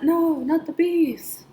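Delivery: high, slow, breathless whispered cry; a hammed-up movie-star panic whisper; Wicker Man impression. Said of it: "the new Wicker Man, and he's like".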